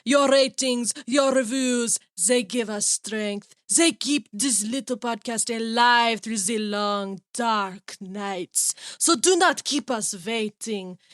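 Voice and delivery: slow, drawn-out spooky monologue; spooky crypt host. Pretend. Host signs off to dearest listeners, spooky. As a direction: stretch it out like a horror host. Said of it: "I'm trying to be spooky".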